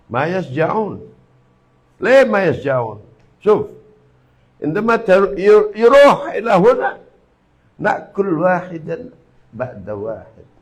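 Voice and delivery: lightly voiced boastful Arab cleric in Arabic; a hint of a bragging Arab cleric; mock Arab boast. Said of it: "itu ngomongnya gini".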